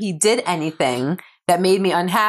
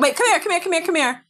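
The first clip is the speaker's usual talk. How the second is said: high, eager repeated come here; eager calling; 11 semitones higher, faster than usual. Real, not acted. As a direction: call her back to you, excited. Calling daughter back to her.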